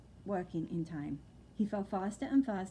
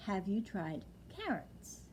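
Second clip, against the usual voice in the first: "Have you tried carrots?" said slower and softer; slow deliberate repeat; 5 dB quieter, slower than usual. Acted. Old lady repeating her question slowly. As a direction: spell it out for the deaf one. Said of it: "I said".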